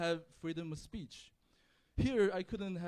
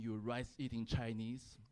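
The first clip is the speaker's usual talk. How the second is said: slow, lower retold jeer; retold insult; 4 semitones lower, slower than usual. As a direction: imitate a stranger's drawn-out insult. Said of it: "but he went".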